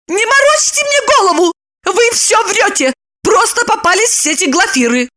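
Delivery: high, furious woman's outburst; exploding. A narrator's reading. Lipochka explodes at Roman. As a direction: blow up at him. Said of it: "Она взорвалась".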